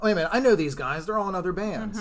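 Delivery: mildly acted "hang on" moment of discovery; sudden realisation. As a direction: retell a realisation, voice lifting. Acting out his sudden realisation.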